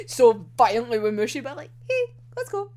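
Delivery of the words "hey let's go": much higher, yelped hurry-up; mock shout with a cracked edge; urgent call. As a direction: bark it to get him moving. Character urgently rushes partner.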